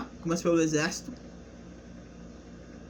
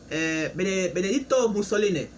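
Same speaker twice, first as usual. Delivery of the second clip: Italian accent. Shown as a demonstration. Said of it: "meu sotaque italiano".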